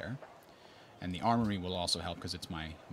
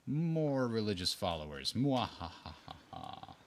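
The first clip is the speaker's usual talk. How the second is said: mad scientist; 3 semitones higher, slower than usual. Pretend. Gloating over converting rival civs.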